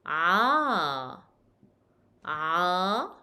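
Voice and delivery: "a" as a long Arabic ain vowel; ain with fatha. Shown as a demonstration. Teacher shows ain with fatha, long a. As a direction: ain opening into a drawn-out "a". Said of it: "you pronounce it as a".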